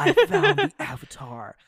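very high, loud mock delivery through laughter; over-the-top high-pitched character quote; hammed-up redo. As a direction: squeal it as a joke, laughing. Jokey redo of the mocked line.

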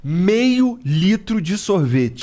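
slow, savoring menu listing; ad pitch. Acted. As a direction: sell each item slowly.

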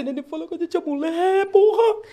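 high, urgent retold plea; apelo aflito imitado. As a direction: plead urgently, pitch climbing to the end. Retold frantic plea to friend. (apelo aflito e agudo, recontado)

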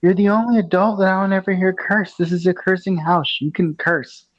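put-on high-pitched child quote; imitating a goddaughter. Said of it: "and she said".

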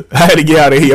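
fast, laughing repeat. Real, not acted. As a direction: laugh it off quickly.

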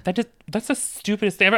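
whispered aside; whispering. Real, not acted. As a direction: whisper it scornfully. Aside about the taunt.

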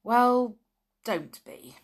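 lightly soothing reassurance. A narrator's reading. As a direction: gently brush the worry away. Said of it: "said Julian soothingly".

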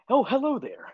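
high squeaky talking pet; talking dog voice. Pretend. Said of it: "But it will be soon".

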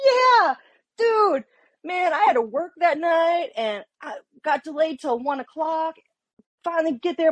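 telling investigators about the late night, high and nonchalant; breezy retold answer. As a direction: brush it off like it's nothing. Retelling her breezy answer to investigators.

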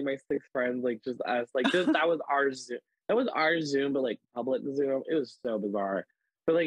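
usual speaking voice

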